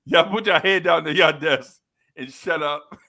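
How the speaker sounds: put-on loud, barking teacher shouting at the kids; mock teacher yell. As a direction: bellow it like an angry schoolteacher. Teacher yells at the class.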